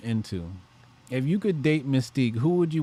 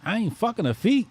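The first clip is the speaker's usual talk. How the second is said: quoting Boomerang; 10 semitones higher than usual. Retold or imitated. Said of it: "What they said in Boomerang?".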